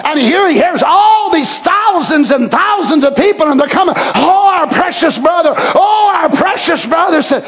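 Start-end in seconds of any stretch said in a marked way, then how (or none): 3.9-7.2 high, ringing welcome; joyful greeting. Retold or imitated. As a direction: call out with joy to a loved brother. Crowd greets him joyfully.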